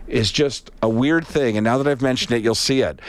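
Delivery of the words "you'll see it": ordinary talk, nothing marked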